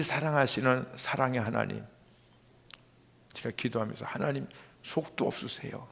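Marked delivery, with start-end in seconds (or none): 4.1-5.9 soft, moved murmur to God; retold prayer, softly voiced; hushed prayer. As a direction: say it quietly in prayer. Retold prayer, moved by God's love.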